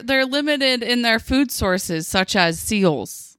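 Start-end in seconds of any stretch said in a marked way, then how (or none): 2.1-3.4 lightly voiced news anchor; slow, deliberate newscaster read. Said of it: "I am using my newscaster voice".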